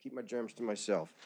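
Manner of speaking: muffled through a mask; speaking behind a face mask. Real, not acted. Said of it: "Forgive the mask tonight".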